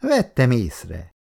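slow, lightly biting retort; tart. Acted. Icu answering Halász's boast over ping-pong, tart. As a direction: needle him with a touch of sting. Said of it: "mondta csípős hangon Icu".

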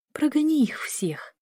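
высокая, протяжная просьба; умолять негромко, растягивая слова; с мольбой. A narrator's reading. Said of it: "прошептала с мольбой в голосе". (жалобно упрашивая)

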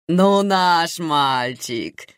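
slow, doting admiration; aunt watches the doctor eat, admiring and doting. Acted. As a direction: coo over the boy eating. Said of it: "восхищённо комментировала Наира".

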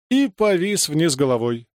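ordinary delivery, nothing marked

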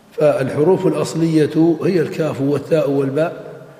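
measured, deliberate reading of a textbook; formal text reading. Acted. Teacher reads the author's text to students, formal measured reading. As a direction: read it out slowly with full case endings.

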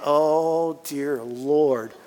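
soft, worn-out groan under the breath; mock groan. Patient on the steep treadmill, softly groaning. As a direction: sigh it like you're fading on the uphill. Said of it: "And you're going".

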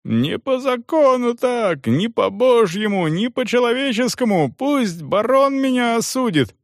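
yelling in protest. A narrator's reading. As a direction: cry out against the beating. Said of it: "а мужик орал".

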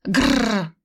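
short predatory growl; playful mock growl. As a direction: growl at the shirt like a cat. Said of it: "хищно потянулась".

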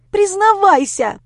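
high, loud drawn-out yell; shouting. Acted. Lera shouting at Grisha to confess. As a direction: yell the order at him. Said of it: "снова закричала".

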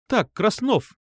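high, sharp call of a displeased teacher; teacher snapping at a pupil by name. A narrator's reading. Teacher reprimands Krasnov in class, high and displeased. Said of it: "недовольно одёрнула меня Юля".

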